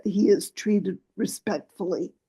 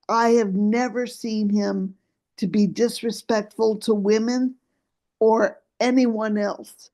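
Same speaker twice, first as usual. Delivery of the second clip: losing voice, rough and tired; hoarse late-night voice. Real, not acted. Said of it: "I'm losing my voice".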